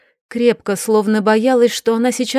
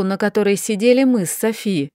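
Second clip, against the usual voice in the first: ordinary delivery, nothing marked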